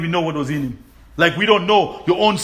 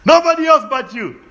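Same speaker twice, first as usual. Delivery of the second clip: laughing through a high loud cry; joyful laughing shout; 8 semitones higher, 4 dB louder than usual. Real, not acted. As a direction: laugh as you proclaim it.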